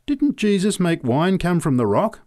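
loud, high challenge; demanding drunk. A narrator's reading. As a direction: demand an answer from the preacher. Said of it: "demanded the drunk".

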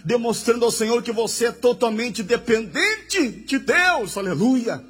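fervent preacher, phrases building in intensity; impassioned pulpit exhortation; fervent preaching. Real, not acted. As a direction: build the list up to a high peak on "Deus". Preaches at full force.

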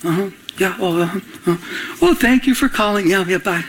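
lightly acted, unbothered phone replies; peaceful. Pastor answering a yelling caller, peaceful. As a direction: breeze politely through the call. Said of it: "I just had such peace".

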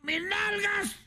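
very high squeaky panicked frog voice; frog wailing. Acted. Frog cries out after losing its backside, high squeaky wail. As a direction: shriek in dismay like a tiny frog. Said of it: "la rana se dio cuenta y dijo".

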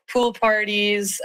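usual speaking voice

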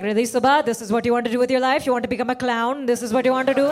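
mildly angry mom scolding; rapid-fire rhetorical questions from a cross mother; furious mom. Retold or imitated. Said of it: "She's furious".

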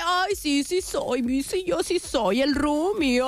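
drawn-out mock amused mother; hammed-up mom playing along; imitating giggly mom. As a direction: tease out the words like a tickled mom. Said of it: "Mi mamá se ríe y dice".

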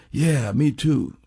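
slow, lightly voiced laid-back reply; imitating a rock musician. The musician answering a fan, slow and easy imitation. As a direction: stretch it out lazily, like a cool old bluesman. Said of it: "that's the way he talks".

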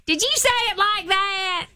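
high exaggerated Southern twang; mocking country twang. Coworkers teasing her from behind, high mock Southern accent.

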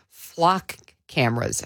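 flock cameras in a thick Chicago accent; flat Chicago vowels on flock cameras. Real, not acted. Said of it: "I know I'm using my Chicago accent to say flock cameras".

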